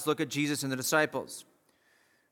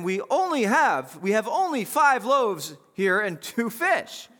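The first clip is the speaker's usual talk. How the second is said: worried disciples; 5 semitones higher, slower than usual. Retold or imitated. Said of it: "They said to him".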